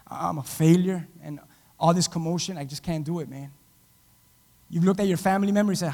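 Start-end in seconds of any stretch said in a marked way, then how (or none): 0.1-3.5 mildly acted giving up, lower and trailing softer; a touch of dejected resignation; defeated. Someone running away after failing, mildly defeated and low. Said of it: "just run away and say".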